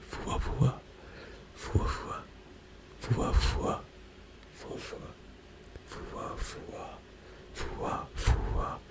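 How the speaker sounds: soft breathy Fuwa fuwa, whispered; Japanese fuwa fuwa. Shown as a demonstration. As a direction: repeat Fuwa fuwa softly in Japanese. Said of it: "like fua fua in Japanese".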